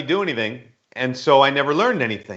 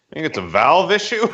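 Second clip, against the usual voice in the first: mock-knowing question, lightly played; bluffing a little expertise, amused; trying to sound smart; 3 semitones higher than usual. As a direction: pretend you know what you're asking. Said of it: "try to sound smart".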